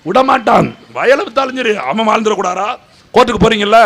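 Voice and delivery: ordinary delivery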